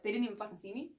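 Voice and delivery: rising fury at not being seen; a hammed-up offended driver; mock indignation. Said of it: "it's almost like".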